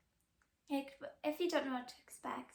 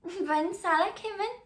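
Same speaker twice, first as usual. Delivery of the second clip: laughing through the words, higher and louder; 6 semitones higher, 8 dB louder than usual. Real, not acted. New mom laughing about missing her husband's arrival. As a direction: giggle it out, amused at herself. Laughing at herself, recalling being high.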